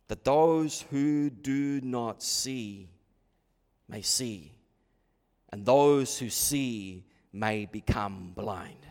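slow, low, measured reading; solemn scripture reading. Acted. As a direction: read the verse low and slowly, with weighty pauses. Reads a verse slowly, solemnly.

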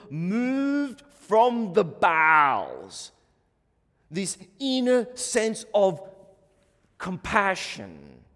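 slow, drawn-out savouring. Real, not acted. Preacher savouring compassion to congregation, slow drawn-out. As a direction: stretch each word out slowly.

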